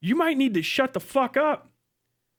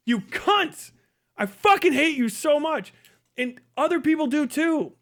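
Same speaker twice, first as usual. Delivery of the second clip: higher, heated insult; real anger, raised voice; angry outburst; 5 semitones higher than usual. Real, not acted. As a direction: spit it at them. Ranting at Democrats.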